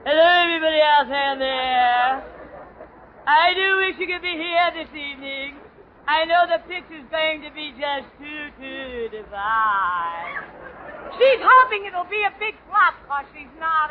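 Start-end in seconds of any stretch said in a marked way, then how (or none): 0.0-10.4 lightly voiced gushing starlet, stretching out the divine; mock radio starlet. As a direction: play a hammed-up screen star greeting the radio audience. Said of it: "Miss Constance Swanson".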